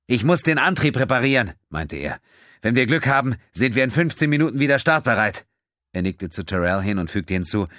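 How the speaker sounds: brisk and matter-of-fact, giving the deadline; lightly voiced pilot Quinn. Quinn tells Terrell how much time he has, brisk.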